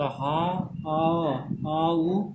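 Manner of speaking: हा, आ, उ held apart with pauses; word broken into sounds. Shown as a demonstration. Teacher splitting हाउस into its vowels, sound by sound. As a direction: sound out आ then उ separately. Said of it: "आ और उ दो vowel sound".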